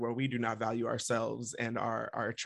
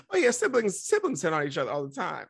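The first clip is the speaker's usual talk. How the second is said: sarcastic; 4 semitones higher, 5 dB louder than usual. Pretend. Sarcastic mock agreement.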